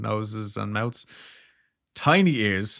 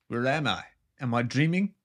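put-on light South African accent; a hint of a South African woman; 3 semitones higher than usual. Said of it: "in her South African accent".

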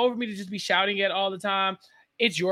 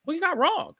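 grudging agreement; 11 semitones higher than usual. Retold or imitated. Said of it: "I'm also like".

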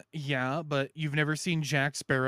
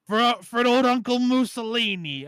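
mock patriot; 7 semitones higher, 4 dB louder than usual. Mock Italian patriotic rally.

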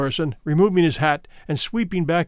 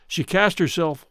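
plain reading voice

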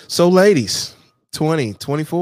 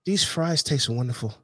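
a lightly voiced snooty gourmet, slow and higher; mock fancy foodie; 5 semitones higher than usual. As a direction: savour each word like a pretentious diner. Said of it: "than sitting back".

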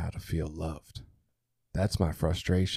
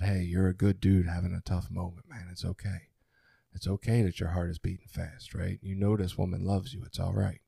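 soft, steady, reassuring; reassuring self-talk; 2 semitones lower, 3 dB quieter than usual. Retold or imitated. Calming himself in a tense moment, softly reassuring. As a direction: talk yourself down gently, like a friend. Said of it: "because I'm affirming myself through it".

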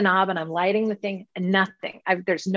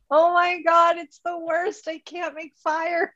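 retold camping despair; 8 semitones higher than usual. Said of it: "And I'm like".

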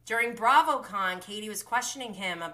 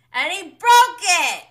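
loud, high burst of delight; excited exclamation; 9 semitones higher, 14 dB louder than usual. Real, not acted. Recapping the penis flute moment, excited exclamation. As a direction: punch it out, high and drawn out.

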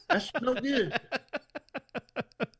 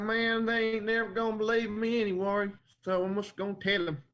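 a hint of a Texas accent; bad Texas accent; 5 semitones higher than usual. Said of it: "That's probably a terrible Texas accent".

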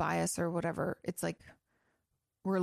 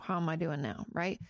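ordinary talk, nothing marked

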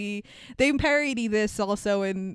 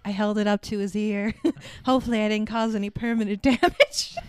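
calm and chill. Retold or imitated. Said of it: "she's so calm and, like, chill about it".

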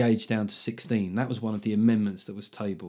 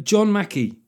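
slow hint of Scouse; 8 semitones higher, 5 dB louder, slower than usual. Shown as a demonstration. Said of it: "Scouse or Scottish?".

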